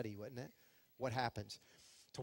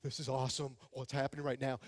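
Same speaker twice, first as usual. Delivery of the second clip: excited Peter; 5 semitones lower, 4 dB quieter than usual. Retold or imitated. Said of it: "Peter's just like".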